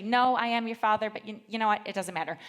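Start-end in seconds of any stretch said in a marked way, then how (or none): 0.0-1.1 lightly voiced Vader quote. Shown as a demonstration. Speaker corrects her husband's movie misquote, loud light Vader impression. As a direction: set the misquote right with a hint of Vader. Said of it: "It's actually".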